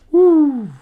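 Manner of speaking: high whooping cheer; excited whoop. Acted. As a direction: let out a happy woo. Character cheers.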